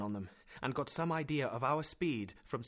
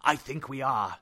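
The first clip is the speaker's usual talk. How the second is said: smiling; 7 dB louder than usual. Acted.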